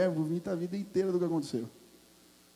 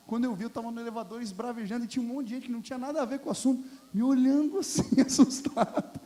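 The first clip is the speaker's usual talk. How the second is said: laughing retelling; 5 semitones higher than usual. Real, not acted. Retelling ranting in elevator, laughing.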